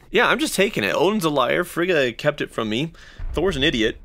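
defiant Loki. Retold or imitated. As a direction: spit out each grievance. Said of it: "he's like".

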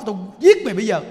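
loud acted shout at a child; angry threat. Fed-up carer to crying child, angry threatening shout. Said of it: "mà quý vị sân si lên á".

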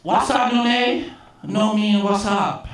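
high, slow mimicked Chinese accent; Big Chen. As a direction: correct them slowly in a Chinese-accented boss voice. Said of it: "I'm just imitating his actual voice".

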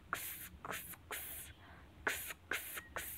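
X as a voiceless "ks" sound; phonic sound. Shown as a demonstration. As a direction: say X as a whispered "ks", not the letter name. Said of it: "we will pronounce it with phonic sound".

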